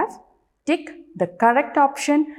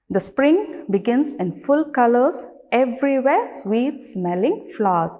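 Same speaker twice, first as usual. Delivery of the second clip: deliberate recital, each phrase set apart; poem recitation; 3 semitones higher than usual. Shown as a demonstration. Teacher starts reciting the poem for children, poem recitation. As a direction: recite the verse clearly for a class. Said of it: "let's start reciting the poem".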